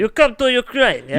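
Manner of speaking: playful bad Ukrainian accent impression; mock Ukrainian accent. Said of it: "I can't do a good Ukrainian accent".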